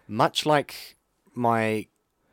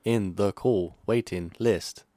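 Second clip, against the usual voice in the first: sweet recorded hold message; slower than usual. Pretend. Mock phone hold message.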